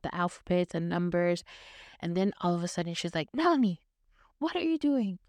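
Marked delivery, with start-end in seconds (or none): 3.3-5.2 mock angry yell at a small cousin; yelling teacher cousin. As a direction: scold the little one like a cross teacher. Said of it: "she started yelling at me".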